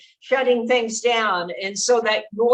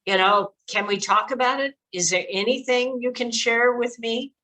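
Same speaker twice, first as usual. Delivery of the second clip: calm gentle invitation. Shown as a demonstration. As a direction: open the door gently for a scared child. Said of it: "sit with them very calmly and say".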